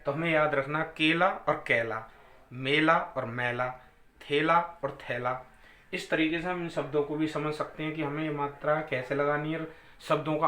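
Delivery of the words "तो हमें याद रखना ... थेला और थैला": मेला मैला, थेला थैला drawn out; slow pairs. Shown as a demonstration. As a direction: recite the word pairs slowly. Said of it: "ये जो हमने बोला ए और ये ए". (जोड़ों को धीरे-धीरे बोलना)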